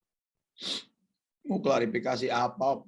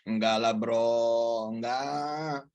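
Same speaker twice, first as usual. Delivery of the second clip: calm refusal; 5 semitones lower, much slower than usual. Retold or imitated. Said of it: "Apa kata dia?".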